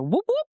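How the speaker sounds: quick rising siren whoops; police siren whoop. Retold or imitated. Driver imitating the police lights popping up behind, siren whoop.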